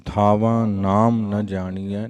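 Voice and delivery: ਥਾਵਾਂ and ਜਾਣੀਐ with a nasal sound, recited slowly; nasal endings. Shown as a demonstration. Teacher showing the nasal ਥਾਵਾਂ to the students. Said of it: "ਇਸ ਲਈ ਨਾਸਕੀ ਉਚਾਰਨ ਹੋਏਗਾ".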